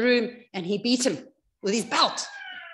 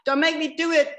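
mock-tearful pleading, building louder; begging; 3 dB louder than usual. Son collapsed on the floor to dad, acted begging. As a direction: plead with growing force, lightly acted. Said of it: "crying, begging his dad".

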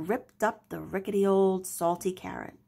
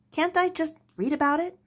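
pleading Henry; 8 semitones higher, faster than usual. Acted. Son asks his pirate father, higher pleading. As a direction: beg to keep reading. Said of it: "asked Henry".

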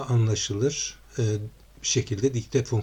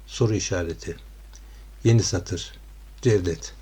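dictating with punctuation. Shown as a demonstration. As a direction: dictate clearly, naming each comma. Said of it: "Şimdi yine dikteyle yazdırıyorum".

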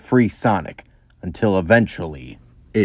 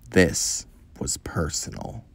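whisper; 4 semitones lower, 9 dB quieter, slower than usual. A narrator's reading. Dramatic narration beat.

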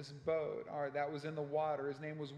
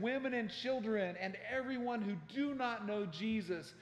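mildly raised, urgent preacher's call; retold yelling; 3 semitones higher than usual. Harper pounding on cabin doors, imitated yelling. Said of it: "he started yelling out".

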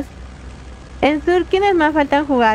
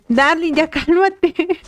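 riendo; 3 semitones higher, slower than usual. Real, not acted. Se ríe calmando al amigo.

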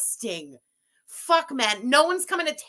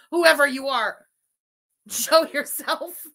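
shouted challenge; 3 dB louder than usual. Real, not acted. Challenging unseen viewer to appear.

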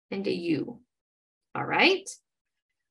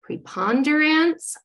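slow blended word; 4 semitones higher, slower than usual. Shown as a demonstration. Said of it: "model that for them".

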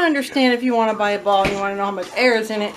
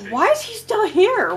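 suspicious; 9 semitones higher, slower than usual. Retold or imitated. Suspicious thought in the store.

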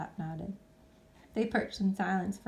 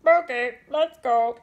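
loud, eager bird voice; keen bird; 5 semitones higher, 12 dB louder, slower than usual. Acted. Pip agreeing to go, loud and keen. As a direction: jump at the offer. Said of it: "said Pip".

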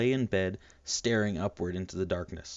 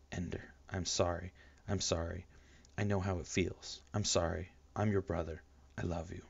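whisper; 6 dB quieter than usual. Acted. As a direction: murmur so the sleeper won't wake. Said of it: "He whispered".

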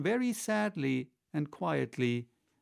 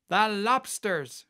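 high, loud, stretched-out call; excited shout; 7 semitones higher, 5 dB louder, slower than usual. A narrator's reading. Gryphon bursting in on the Mock Turtle, high excited shout. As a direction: shout it as if leaping up. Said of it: "shouted the Gryphon with a bound".

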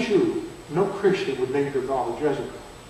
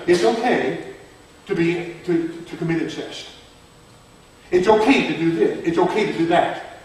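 mock-casual with a laugh; mocking people; 2 semitones higher, 5 dB louder than usual. Preacher mocking what people say, laughing through it. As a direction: laugh off the sin as they would. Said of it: "People say".

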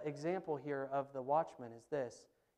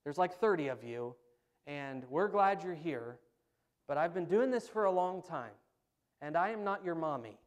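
loud no-nonsense youth pastor; a raised-voice youth pastor laying down the law; stern camp leader; 3 semitones higher, 7 dB louder than usual. Retold or imitated. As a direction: bark the rules at the kids. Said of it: "he goes".

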